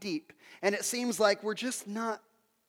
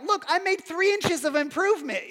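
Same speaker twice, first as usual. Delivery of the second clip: mock exasperated exclaim; 8 semitones higher than usual. Exhausted digging, mock exclaiming.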